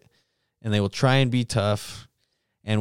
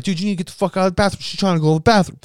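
mock tough guy; 9 semitones higher, 4 dB louder, much faster than usual. Imagined tough guy confronting.

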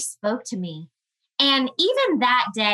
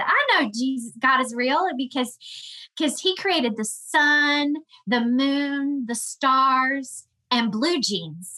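higher, lightly imitated small child; sweet high-pitched little boy; 4 semitones higher, slower than usual. Mother imitating her young son saying how he knows God, sweet and high-pitched. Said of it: "he had this little sweet high-pitched voice".

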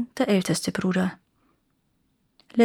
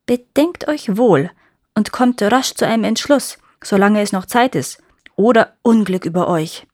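in a rage; 5 dB louder than usual. Acted. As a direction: hurl the threat like a curse. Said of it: "rief die Hexe in Wut".

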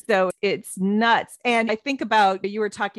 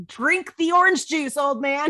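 coaxing father; 5 semitones higher than usual. Retold or imitated. Coaxing her stubborn father.

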